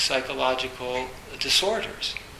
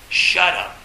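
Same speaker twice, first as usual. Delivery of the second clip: short, louder mock snap of shut up; mock angry snap; 4 semitones higher, 6 dB louder than usual. Teacher to students, showing it's okay to snap back. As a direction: bark it out as a demo of allowed anger.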